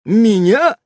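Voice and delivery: high, light chirpy voice; wife chirping to husband. A narrator's reading. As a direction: twitter it sweetly. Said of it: "защебетала Ульянка".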